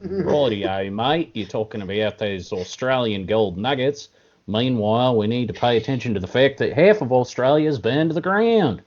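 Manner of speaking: put-on Australian accent. Host in mock Australian accent talking about koalas. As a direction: play the blokey Australian. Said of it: "That is a great accent".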